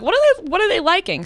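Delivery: high, nosy snooping voice; pry like a gossip; a snoop scrolling a feed, a hint of high nosiness; nosy curiosity. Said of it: "I'm like".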